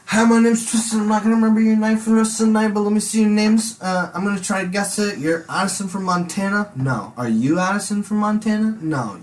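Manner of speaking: put-on loud sloppy drunk introducing himself to everyone; drunk party guy. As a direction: play your wasted self hitting on girls. Drunk self at teen party.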